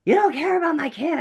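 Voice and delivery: loud, high mock yell; acted-out furious shout; upset father's outburst. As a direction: blow up like an upset dad, then garble off. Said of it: "the dad just stood up and said".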